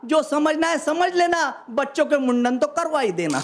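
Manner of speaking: measured stage recital of humorous verse; phrase by phrase to an audience; comic poem recitation. Acted. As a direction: declaim it like a hasya kavi.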